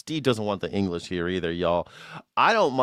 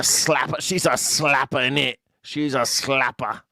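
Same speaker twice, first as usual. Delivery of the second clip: mock English accent; 2 semitones higher than usual. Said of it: "that was a thing that they would say".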